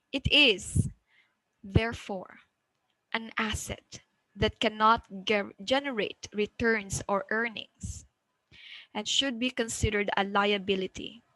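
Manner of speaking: measured phrasing with a break before "and should"; phrase breaks. Shown as a demonstration. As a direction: pause after "It is" and "therefore". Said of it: "Then pause".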